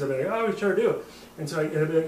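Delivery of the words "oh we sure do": put-on Irish accent. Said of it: "we're both doing Irish accents".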